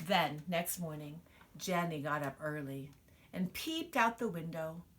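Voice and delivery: lively storybook reading; reading to children. Acted. Mother reading a picture book to her child, expressive storytelling. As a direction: read it out to little ones, full of wonder.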